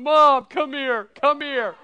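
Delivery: loud, slow, high calling out; laughing call. Retold or imitated. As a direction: shout for mom through laughter. Daughter calling mom while laughing.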